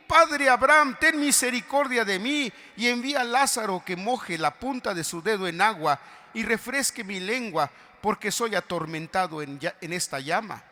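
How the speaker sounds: loud, high desperate plea; crying out. Acted. Rich man in hell begging Abraham, shouted plea. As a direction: cry out to Abraham from the flames. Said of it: "dando voces".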